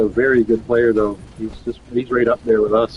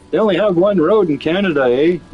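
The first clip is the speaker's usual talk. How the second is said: higher, sing-song mock Canadian; mock Canadian accent; 5 semitones higher than usual. Quoting South Park making fun of Canada, sing-song Canadian accent. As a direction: imitate a cartoon poking fun at Canadians, lilting. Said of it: "They're making fun of Canada".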